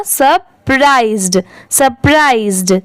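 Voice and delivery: सरप्राइज्ड said carefully, ending in "zd"; final D sounded. Shown as a demonstration. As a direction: finish each सरप्राइज्ड on a "d". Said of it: "last में ड की sound आएगी".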